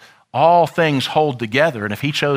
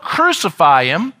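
yelled; 3 semitones higher, 3 dB louder than usual. Acted. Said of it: "We yelled".

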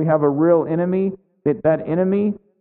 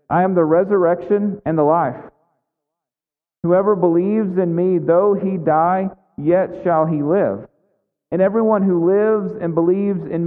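raised, solemn reading of scripture; 2 semitones higher than usual. Acted. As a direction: proclaim the verse to the congregation. Reads Jesus' words from John.

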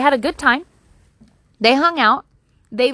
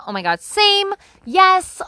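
way higher and louder eager squeal; squealing mock gush; 9 semitones higher, 5 dB louder, slower than usual. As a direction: squeak it out like a starstruck fan. Gushing over a crush friend.

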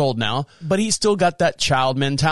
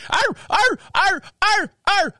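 high, repeated mock barks; imitated dog barking; slower than usual. Neighbor's dogs barking all day, high yapping. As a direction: yap like a dog that won't quit. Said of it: "dogs across the street that bark".

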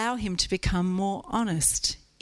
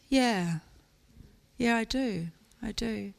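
lady asking for prayer; 4 dB quieter than usual. Retold or imitated. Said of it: "This lady came up".

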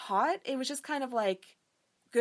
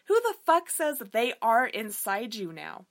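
incredulous; 6 dB louder than usual. Real, not acted. Ranting about awkward sex line.

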